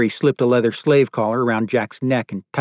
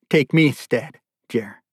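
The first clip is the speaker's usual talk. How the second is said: slightly raised, restrained plea; urgent plea. Acted. Father offering himself to captor for daughter, restrained plea. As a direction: offer yourself, still holding back.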